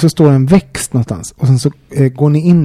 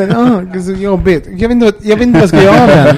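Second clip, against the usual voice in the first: fast, higher mock fuss over the plant; mock exasperation; 4 semitones higher than usual. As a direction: pretend the plant is a burden, rushing it out. Fake complaint about her plant.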